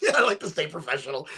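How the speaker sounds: said through a laugh, joking. Real, not acted. Joking to viewers while smoking, laughing. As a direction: chuckle through it.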